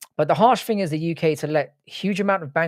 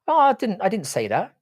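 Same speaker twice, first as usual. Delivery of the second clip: mock defensive; 8 semitones higher than usual. Real, not acted. Defends himself against chat joke.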